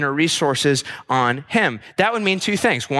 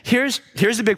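put-on girl voice; 4 semitones higher, faster than usual.

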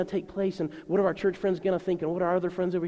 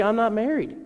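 mock whine; 5 semitones higher, 4 dB louder than usual. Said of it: "And they're just free".

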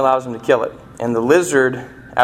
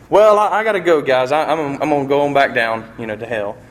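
reluctant visitor; 2 semitones higher, faster than usual. Retold or imitated. The ghost tells the angel he's leaving heaven, lightly voiced and nervous. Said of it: "and he's like".

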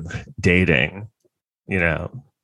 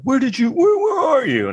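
put-on anxious girlfriend. Girlfriend's anxious text voiced.

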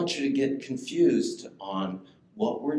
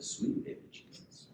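Maya's way; 11 dB quieter than usual. Retold or imitated. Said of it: "that's how Maya says it".

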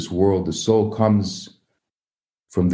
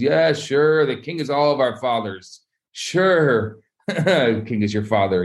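humoring him with a laugh; high, disbelieving "sure", then a chuckle; scoffing; 3 semitones higher, slower than usual. Acted. Townspeople answering the man claiming royal birth, scoffing.

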